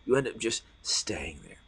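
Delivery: hushed whispered echo. Shown as a demonstration. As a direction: whisper it back to the room. Repeated as a whisper.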